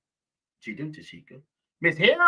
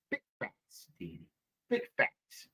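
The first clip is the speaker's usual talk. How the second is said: very high, softer squeak of the words; squeaky mock; 7 dB quieter than usual. Streamer echoing her catchphrase in a silly squeak.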